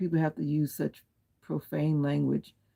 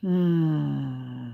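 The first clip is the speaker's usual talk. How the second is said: long hmm; 4 dB louder than usual. Real, not acted. Pondering before talk of trolls.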